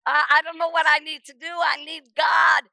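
retold frantic pleading, half shouted; frantic screaming. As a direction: spill it all out in a rising panic. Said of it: "And I'm screaming".

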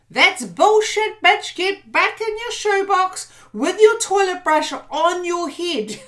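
loud, high, slow mocking shout; defiant talk-back. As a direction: yell the bully back into its box.

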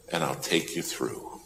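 soft promise. Retold or imitated. Preacher closes the plea softly.

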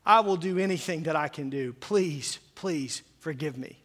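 mild mock sob of sorry, begging forgiveness; tearful plea. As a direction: lightly act out a weeping apology. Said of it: "in the puddle of tears going".

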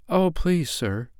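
put-on high little girl, softening on "sir"; timid. A narrator's reading. Little girl asks a favour of the strange man, timidly. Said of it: "answered little Nanny timidly".

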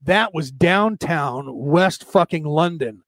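retold. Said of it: "if you do an English accent".

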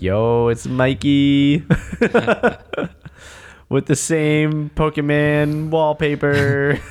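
slow, hammed-up documentary voiceover; documentary narrator. Mocking a friend's future documentary, slow narrator voice. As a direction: drawl it out like a dramatic film narrator. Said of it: "they could be like".

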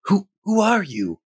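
high, hesitant questioning character voice; high put-on voice calling to a stranger; Ebby's character voice. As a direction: ask it high-pitched, stumbling on the first word. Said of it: "move that way and respond".

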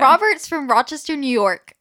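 put-on American accent. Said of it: "I'm putting on an accent right now".

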